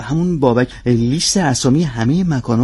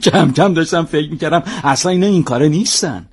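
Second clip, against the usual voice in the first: a chuckle running into the words; laughing; 4 semitones higher than usual. Acted. Agent telling the captain his news with a laugh. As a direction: laugh through the first phrase.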